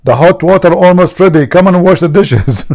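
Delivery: high, loud scolding yell; mock furious wife hollering orders; screaming wife. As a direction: yell at your husband in a high voice. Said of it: "His wife, she screamed".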